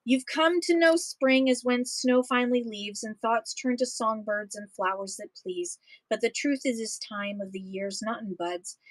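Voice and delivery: steady, rhythmic poem read-aloud. Acted. Reading a prairie poem to an audience, rhythmic read-aloud. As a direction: read the verses with a lilting beat for listeners.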